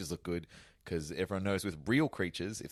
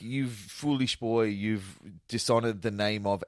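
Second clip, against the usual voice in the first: mock German accent; 2 semitones higher, slower than usual. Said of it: "but he's like".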